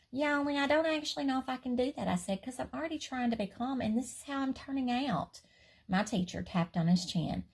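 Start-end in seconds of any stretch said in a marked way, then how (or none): 0.1-5.4 put-on high, quick little girl rambling; rushed child. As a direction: rattle it off like an earnest kid. Child explaining to teacher.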